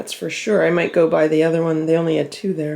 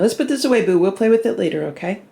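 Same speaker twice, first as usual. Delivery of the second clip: pet talk; 3 semitones higher than usual. Real, not acted. Talking to her cat.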